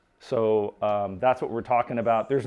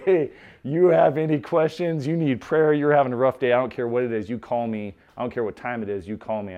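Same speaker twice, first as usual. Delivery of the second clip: sincere offer; 3 dB louder than usual. Retold or imitated. Offering help to tearful driver.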